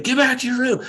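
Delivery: retold shout down the hall; yelled. Father yelling at his kids to get back to their room, mock yell. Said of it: "that's when I yelled".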